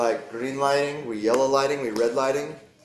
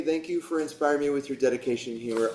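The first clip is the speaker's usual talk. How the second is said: pleased, reading out a note someone wrote you; reading as a received thank-you; 3 dB quieter than usual. Shown as a demonstration. Teacher demos reading a compliment card as received, lightly pleased. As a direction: read it as a compliment from Beck, lightly delighted. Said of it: "that's different than if I own it".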